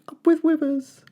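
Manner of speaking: high, hooting dinosaur chant; high cheerful duckbill hoot. A narrator's reading. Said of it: "they hooted".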